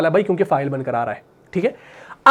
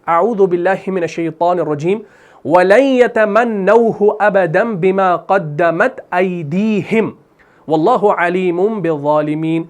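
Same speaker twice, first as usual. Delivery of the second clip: Quran recitation. Acted. Teacher recites Quran verse.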